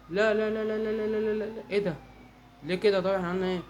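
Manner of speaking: rapid string of high, loud no's; alarmed protest. Real, not acted. Player reacting to trouble in the game, alarmed protest.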